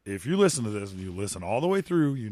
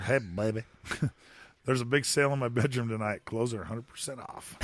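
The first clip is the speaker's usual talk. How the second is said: cheesy pickup line; 2 semitones lower, 4 dB quieter than usual. Acted. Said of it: "here's my pickup line".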